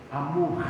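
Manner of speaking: "Amor" drawn out with a soft rising end; "Amor" said sweetly, the R left soft; tender amor. Shown as a demonstration. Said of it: "o R fica assim".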